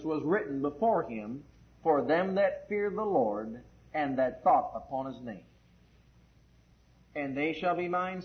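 slow, measured recitation; scripture reading. Acted. Preacher reads scripture to the congregation, slow solemn recitation. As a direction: read the verse out deliberately, phrase by phrase.

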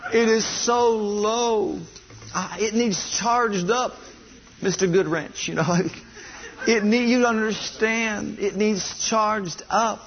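slow, whiny, half-laughing complaint; drained believer. Acted. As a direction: drag it out like a worn-out battery. Preacher acts drained believer, laughing.

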